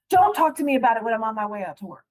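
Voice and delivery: quick, impatient brush-off from the husband; irritated husband. Retold or imitated. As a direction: rattle it off like he's annoyed and heading out. Husband snapping about bills.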